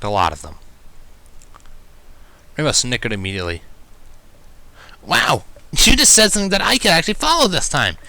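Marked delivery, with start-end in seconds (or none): 5.0-8.0 higher, louder mock praise; sarcastic praise. A narrator's reading. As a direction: tease with fake amazement. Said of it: "hinting of sarcasm".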